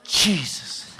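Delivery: P=A; quiet. Retold or imitated. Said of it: "I felt it come up in my chest".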